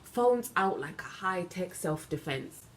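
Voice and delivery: loud, heated outburst that eases slightly by the end; shouting. Acted. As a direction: shout it out to a crowd of witnesses. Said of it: "I did start shouting".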